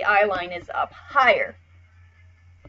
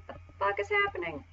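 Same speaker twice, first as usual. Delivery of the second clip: panicked character voice; 11 semitones higher than usual. Pretend. Drawn character panicking at the scene, high squeal. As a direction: voice the drawing's panic, pitched way up. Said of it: "the mouth is like".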